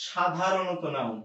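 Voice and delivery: সাধারণত drawn out slowly and stressed. Shown as a demonstration. Teacher warning students that it is only সাধারণত. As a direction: lean on সাধারণত, slowly, to make the point. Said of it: "আমি কিন্তু আপনাকে বলি নাই সব সময় নাউন".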